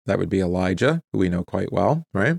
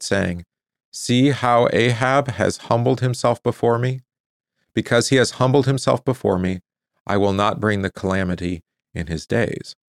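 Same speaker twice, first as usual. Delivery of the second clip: measured, deliberate Bible reading; scripture reading. Real, not acted. Preacher reading scripture to listeners, measured public reading. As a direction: read the passage out solemnly and clearly. Reads the scripture passage aloud.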